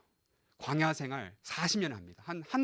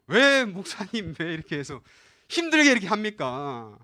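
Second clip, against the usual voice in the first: mock complaint; 6 dB louder than usual. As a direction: stretch it out like a protesting church member. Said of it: "라고 원망할 수 있겠죠".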